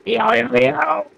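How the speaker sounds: high, slow stoner-ish "yo yo yo"; Funky Kong voice. Acted. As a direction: drawl it out like a chill surfer ape. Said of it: "trying to do the Funky Kong yo yo yo".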